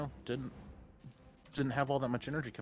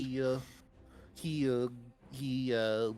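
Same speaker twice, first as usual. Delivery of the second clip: nerd voice; slower than usual. Acted. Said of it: "I'm suddenly doing the nerd voice".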